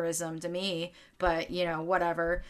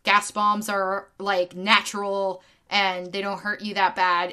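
louder, sarcastic parody of a dismissive pundit; mocking pundit voice; 7 dB louder than usual. Mocking Fox News pundits who downplay gas bombs, louder sarcastic parody. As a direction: ham up the smug talking head. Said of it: "people on Fox News being like".

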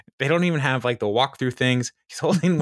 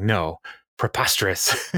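mock drunk denial. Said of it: "drunk people try to use".

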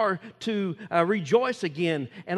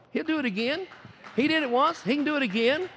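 lifted preaching cry; rising declaration; 6 semitones higher than usual. Acted. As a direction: proclaim it like a promise to the room. Preacher voices his own faith claim.

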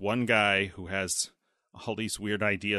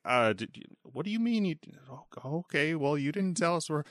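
higher-pitched, halting, pleading act; flustered president on phone; 7 semitones higher than usual. Retold or imitated. President phoning Alexei about planes, mock flustered. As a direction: act out an exasperated, stumbling phone call.

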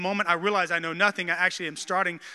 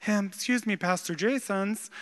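Kip. Retold or imitated. Youth leader timidly addressing his pastor, lightly done Kip voice. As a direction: do a mild movie-character impression, slowing on the name. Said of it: "this is what he sounded like".

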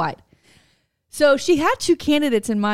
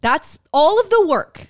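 louder exasperated rant through laughter; laughing rant; 3 semitones higher, 6 dB louder than usual. Real, not acted. To her co-host about her mother's vote, laughing rant. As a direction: laugh at how pointless the work was.

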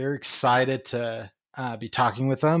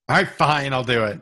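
resentful compliance; 5 dB louder than usual. Real, not acted. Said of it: "I'm reading this".

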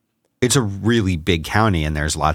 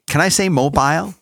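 laughing; 8 semitones higher than usual. Real, not acted. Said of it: "Or is it mobile".

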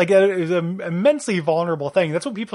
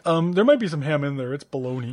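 dumb guy voice. Pretend. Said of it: "I'm using this voice".

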